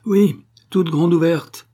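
high, loud, drawn-out shriek; piercing, defiant shout; shrill yelping cry. A narrator's reading. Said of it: "cria Sophie d'une voix glapissante".

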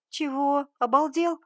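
loud, high-pitched incredulous questions; shocked outrage. Acted. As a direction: react aghast, pitch jumping well up. Friend outraged by blackmail news. (ошарашенно, с возмущением)

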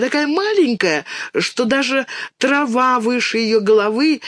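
put-on high, wide-eyed child voice; excited little girl. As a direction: tell it like a thrilling secret. Dinka fantasizing, telling mother.

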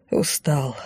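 Устал said low and soft, falling; tired answer. A narrator's reading. Уставший музыкант отвечает. (устало, тихо, с понижением на «Устал»)

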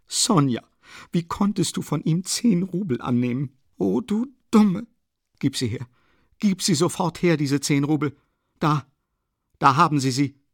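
high, urgent reproach; agitated scolding. A narrator's reading. Katerina scolding Sonja for taking the ten rubles, agitated. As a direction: scold in distress, pushing out each command. Acted scolding, snatching the money.

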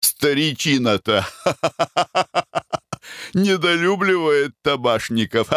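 high voice broken by cackles; laughing mockingly. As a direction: sneer and laugh through it. Foker laughs at the doctor.

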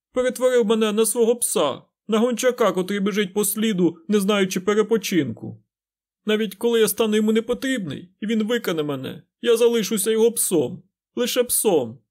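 high, loud anguished wail; despairing cry. A narrator's reading. Fain laments becoming the Dark One's hound, loud and high. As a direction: howl out your ruin like a broken man.

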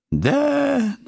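high, furious cry; furious roar. Acted. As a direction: roar his name in fury. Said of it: "яростно взревела она".

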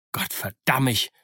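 a sharp cry of mock exasperation; exclaimed oath. Silver cries out at Hands' impatience, exasperated. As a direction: throw the curse out. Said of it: "rief Silver".

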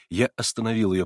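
usual speaking voice

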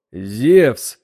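plain, calm bull voice; simply. A narrator's reading. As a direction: state it simply. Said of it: "просто ответил белый бык".

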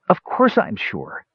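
high, irritated retort; exasperated high-voiced insistence; snapped. A narrator's reading. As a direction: snap back, pitched high and drawn out. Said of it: "Palin snapped".

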